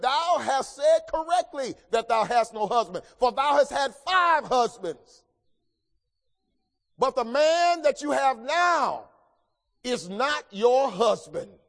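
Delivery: slow, rising preached rebuke of Jesus, quoting the Lord. Retold or imitated. Preacher voices Jesus rebuking the woman at the well, building to a slow shout. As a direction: hammer out the rebuke, slowing to the end. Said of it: "Jesus said".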